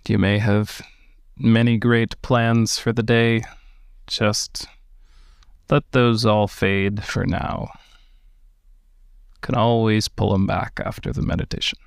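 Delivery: calm, unhurried meditation guidance; guided meditation. Acted. Teacher guiding listeners through meditation, in a calm guiding voice. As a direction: ease listeners into stillness with gentle pacing.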